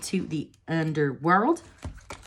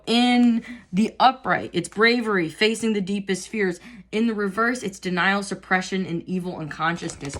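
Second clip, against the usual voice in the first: reading aloud; 2 semitones higher than usual. Acted. Reads upright and reverse meanings.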